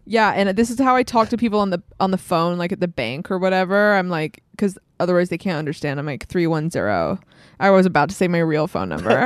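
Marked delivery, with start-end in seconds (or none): 0.1-7.2 put-on American accent. Shown as a demonstration. Brit showing the hosts a bank-call voice, American accent. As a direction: switch into an American phone voice. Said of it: "So you're American now?".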